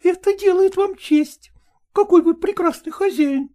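high, quick, coquettish dog chatter; chattering lady dog. Acted. Ragulya excusing herself to Polkan, high quick chatter. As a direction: prattle on, pleased with yourself.

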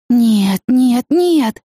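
high, despairing repeated no; desperate no. A narrator's reading. Man in shock at his car, desperate denial. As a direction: cry it out in denial.

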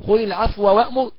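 خذ العفو وأمر with the و of العفو fully merged into وأمر; full merging demo. Shown as a demonstration. Teacher demonstrating full assimilation. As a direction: chant the verse with complete assimilation. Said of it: "فالإدغام المحض نقرأ إزاي".

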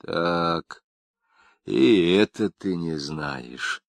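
usual speaking voice

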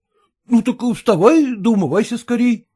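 ordinary delivery, nothing marked

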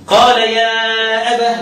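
slow recitation of يا أبه with final هاء; reading for Ibn Amir. Shown as a demonstration. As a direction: say يا أبه slowly, ending on a clear هاء. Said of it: "لو بقرأ لابن عامر". (يا أبه بالهاء ببطء)

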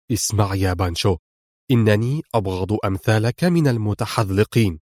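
low, measured, grim threat; stern warning. Acted. Adham warning Pancho over the radio, stern and low. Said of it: "قال أدهم في صرامة".

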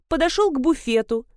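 ordinary delivery, nothing marked

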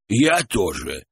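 lightly voiced creaky old man; a hint of an old man's creak. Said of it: "проскрипел дедок".

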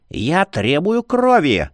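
slow, high, urgent demand; blurted demand. Acted. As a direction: blurt it out insistently. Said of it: "выпалила упырица".

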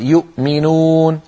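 "يؤمنون" with the hamza sounded as a catch after يُ; drawn-out demo, hamza clearly stopped in "يؤمنون"; glottal stop. Shown as a demonstration. Teacher showing Quran readings, "يؤمنون" with sounded hamza. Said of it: "سواء كانت الهمزة ساكنة مثل يؤمنون".

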